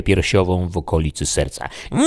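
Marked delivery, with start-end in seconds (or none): 1.9-2.0 long, drawn-out howl; howled scream. A narrator's reading. Dying vampire howling from the pit, anguished. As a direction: wail it out from the depths. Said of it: "zawyła z dołu".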